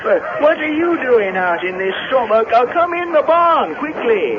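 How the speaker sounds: put-on high, rustic old handyman voice; Digger the handyman. Caretaker startled by Linda at the barn door, high rustic voice. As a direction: play a jumpy country caretaker.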